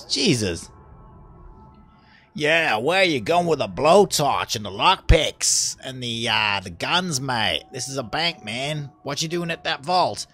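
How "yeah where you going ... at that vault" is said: lightly voiced matey guard challenge; a hint of a put-on guard voice; mock security guard. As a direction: play a guard casually challenging a robber. Acts out the guard questioning intruder.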